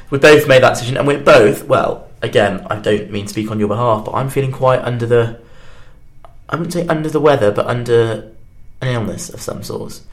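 stuffy-nosed, blocked-up voice; talking through a nasal cold. Real, not acted. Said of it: "apologies to the listeners if I sound very nasally".

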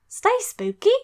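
exaggerated Australian uptalk on the sign-off; mock Australian. Shown as a demonstration. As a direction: play it like a jokey Australian sign-off. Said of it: "Just do kinda like Australian, just have it go up".

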